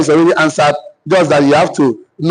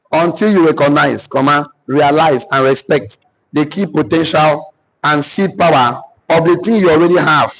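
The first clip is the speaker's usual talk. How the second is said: dictating. Real, not acted. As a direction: spell out the sentence phrase by phrase. Repeating the dictated statement for writers.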